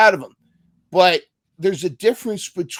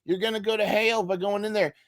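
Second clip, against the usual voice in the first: mock hellfire warning, higher pitched but not truly shouted; street-preacher shout; 6 semitones higher than usual. Man outside a bar warning everybody of hell, mock shouting. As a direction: imitate a sidewalk preacher hollering, half-voiced. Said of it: "he's shouting at everybody saying".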